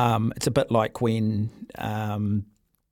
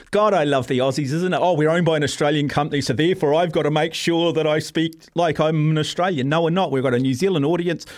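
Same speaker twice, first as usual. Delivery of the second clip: mock Aussie rant; 4 semitones higher, 3 dB louder than usual. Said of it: "I just fall into the Australian cricket team mode".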